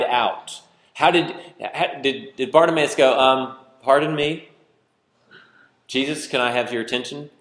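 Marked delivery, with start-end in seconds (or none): 3.8-7.3 overly polite, restrained mock plea; mock polite request. Shown as a demonstration. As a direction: politely ask for attention, no urgency at all. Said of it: "Does anybody see that as polite?".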